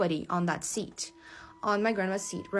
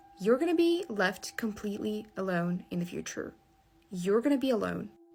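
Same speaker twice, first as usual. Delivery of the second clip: put-on blank, grave, dead-serious flat tone. Retelling a blank-faced warning once given to grandma: retelling a dead-serious blank tone. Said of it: "I had a really serious face".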